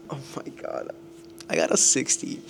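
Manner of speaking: breathless whispered shock at the score; stunned whisper. Real, not acted. Student reacting to a failed exam, whispered shock. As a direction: whisper it like you can't believe it.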